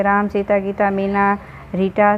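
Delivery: names run together without pauses; rushed list. Shown as a demonstration. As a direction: rattle the names off with no breaks. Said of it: "जैसे हम ऐसे ही speed में बोल जाएंगे". (नाम बिना रुके जल्दी-जल्दी)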